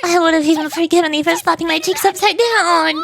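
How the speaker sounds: theatrical wounded cry; hammy stage actor. Acted. Don Quixote archaic indignant outburst.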